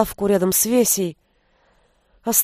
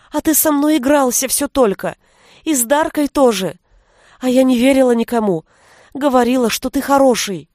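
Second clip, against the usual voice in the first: tearful; 4 semitones higher than usual. Acted. Vesya's tearful confession.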